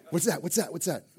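mock-frightened little voices in the dark; spooked kids. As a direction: ask in a small, worried kid voice. Imitating spooked kids hearing a noise.

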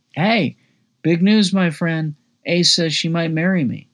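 excited. Acted. Narrator tells Keith the engagement news, excited. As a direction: blurt out the big news.

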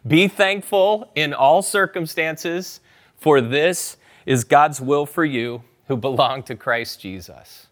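slow, lifted read-along; verse read aloud together; congregation recitation. Shown as a demonstration. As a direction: lead the room in saying the verse. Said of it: "Just say it out loud".

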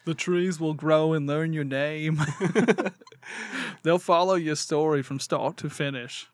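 put-on slow, hammy British accent; mock British accent, slowly. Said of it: "terrible British accent".

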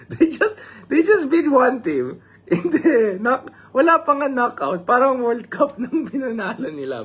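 high, loud, slowed words broken by laughter; laughing in disbelief at the celebration; excited laughing disbelief. Real, not acted. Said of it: "Sorry, I got a little bit emotional".

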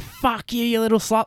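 high-pitched mock child voice; little kids. Little kids abusing a mum, high mock child voice. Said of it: "these little kids".

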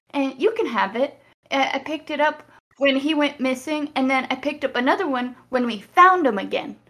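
high-pitched, halting attempt at consolation; Lila, earnest comforter. Plays Lila comforting a grieving companion.

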